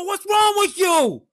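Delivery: put-on high, slow shout in a heavy Asian accent. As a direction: holler it as a cabbie with an Asian accent. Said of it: "but a heavy accent".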